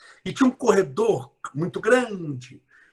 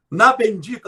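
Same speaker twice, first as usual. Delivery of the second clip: Na bendita, louder and punched; emphatic bendita; 2 semitones higher, 8 dB louder than usual. Shown as a demonstration. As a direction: hit bendita with a jokey push. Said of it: "não vou falar maldita aqui". (bendita enfatizada)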